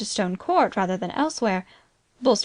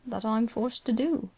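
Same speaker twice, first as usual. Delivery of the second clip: gently; 3 dB quieter than usual. Acted. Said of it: "still more gently".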